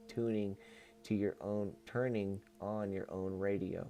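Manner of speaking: even, measured reading voice; book read-aloud. Acted. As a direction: read it out as a solemn channeled message. Reads channeled book aloud.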